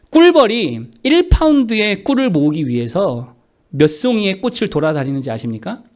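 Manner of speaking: ordinary talk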